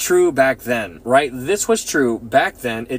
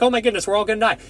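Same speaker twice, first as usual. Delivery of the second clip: higher, imitating a panicked servant; mock panic; 7 semitones higher, much faster than usual. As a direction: play the servant freaking out, half in jest. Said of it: "natural for that man to freak out".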